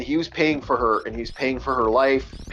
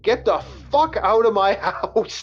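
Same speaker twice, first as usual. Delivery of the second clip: mock furious eviction, raised pitch, ending in a laugh; retold angry outburst; 5 semitones higher than usual. Man who snapped throwing her out of his house, retold angry outburst. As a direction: retell his snap, pushed higher, cracking up by the end.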